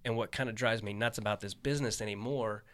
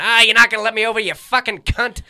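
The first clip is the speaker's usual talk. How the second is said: road rage yell; 12 semitones higher, 18 dB louder than usual. Retold or imitated. Bill yelling at a driver mid-call.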